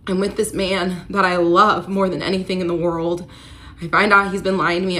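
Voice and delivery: loud, fast, strained outburst; distraught outburst. Retold or imitated. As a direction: pour out the betrayal in a rush. Retelling her despair to friend.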